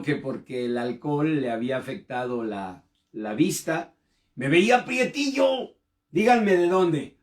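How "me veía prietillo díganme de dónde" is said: joking aside. Acted. Joking aside about his nickname.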